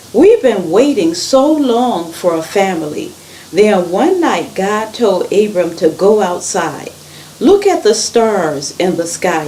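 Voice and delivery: animated storytelling, stressed words lifted; story read-aloud. A narrator's reading. Reader tells children of Abram and God's promise, animated storytelling.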